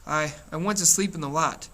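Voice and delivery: halting, tripping over the first word; stammering a lame excuse to an angry older brother; stammered. Acted. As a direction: stumble nervously through the excuse. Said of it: "when I stammered".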